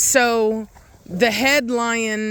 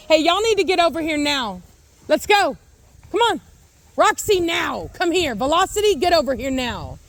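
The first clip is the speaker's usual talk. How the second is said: calling from far away; 5 semitones higher than usual. Retold or imitated. Calling the lions over.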